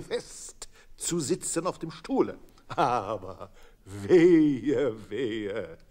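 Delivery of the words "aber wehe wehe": ominous warning. A narrator's reading.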